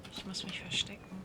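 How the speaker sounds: hushed whisper while sneaking. Real, not acted. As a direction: whisper it like you're hiding. Hiding from guards in game. (flüsternd beim Verstecken)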